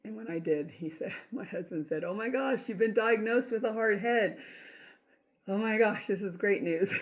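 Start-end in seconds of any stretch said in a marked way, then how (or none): 2.0-6.9 mock delight. Husband delighted at hard head diagnosis.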